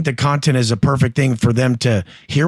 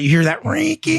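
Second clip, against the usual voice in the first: much higher, thin mock voice on "rinky"; squeaky mock whisper-call; 13 semitones higher than usual. Inmate pointing out a blade being sharpened, high and squeaky. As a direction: pitch it way up like a scraping blade. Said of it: "you're like".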